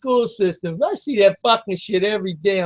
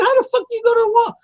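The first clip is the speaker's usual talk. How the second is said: angry; 13 semitones higher, much faster than usual. Retold or imitated. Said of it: "I actually got pissed".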